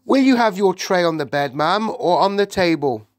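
put-on high, loud cheerful old maid; bright morning greeting from an old servant. A narrator's reading. Maid offers breakfast tray.

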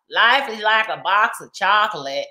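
movie-line imitation. Quotes Forrest Gump's famous movie line.

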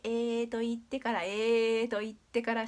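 a long, wide "えー" each time; wide-spread vowel. Shown as a demonstration. Teacher coaching mouth shape, "えー" held long and spread wide. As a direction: hold "えー" long with the mouth pulled sideways. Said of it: "横に開いて".

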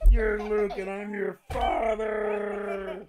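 loud, slow, booming villain voice with a laugh; Darth Vader joke. Pretend. Father hamming up a movie line to son named Luke, loud and slow. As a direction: boom it out like a movie villain revealing himself. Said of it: "For the one joke I'm gonna make".

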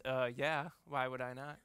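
a hint of a sassy four-year-old, laughing through it; as if the question is silly; sassy kid answer. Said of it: "the right sassy answer".

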